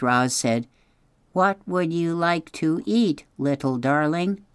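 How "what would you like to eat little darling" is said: sweet, friendly robot voice coaxing a hungry chick; a gentle, friendly ask; kindly robot voice; friendliest voice. Acted. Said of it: "using her friendliest voice".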